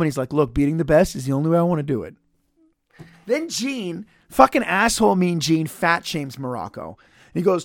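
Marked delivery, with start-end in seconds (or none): 0.3-2.2 quick, offhand, unbothered quote; super calm. Retold or imitated. Imitating Morocco answering the interviewer, mildly calm and casual. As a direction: say it evenly, as if it's no big deal. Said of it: "he's super calm".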